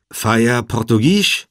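friendly and deliberate, rising at the end; friendly, smiling question. A narrator's reading. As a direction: ask a stranger slowly and amiably. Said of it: "fragte Jevi mit freundlichem Lächeln".

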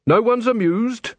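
high-pitched, insistent telling-off; stern reprimand. Acted. Carrot singling out armed dwarfs.

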